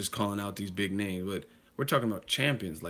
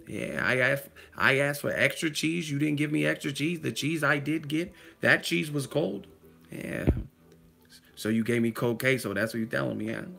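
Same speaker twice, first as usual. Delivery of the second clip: higher, indignant complaint; Denzel impression; 4 semitones higher than usual. Playing Denzel complaining about cold queso, higher and indignant. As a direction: press each point like Denzel in a rhythm. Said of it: "Denzel be like".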